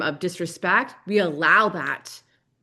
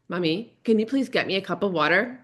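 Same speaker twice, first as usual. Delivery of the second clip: sweet asking tone with a rise on please; the kid asking nicely this time; polite child. Retold or imitated. Son politely asking mom for water, lightly voiced. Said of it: "do you wanna try that again".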